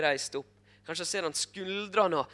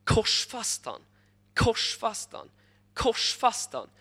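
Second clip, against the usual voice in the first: retold crowd chant, raised and louder; crowd shouting; 5 semitones higher, 4 dB louder, slower than usual. Crowd to Pilate demanding crucifixion, chanted shout. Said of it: "Så de kommer der og sier".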